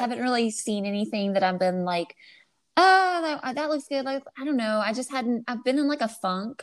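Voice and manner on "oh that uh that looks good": high bright gush over a new book; excited. Retold or imitated. Friend imitating her own gushing reaction to a book. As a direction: gush like you just found the perfect book.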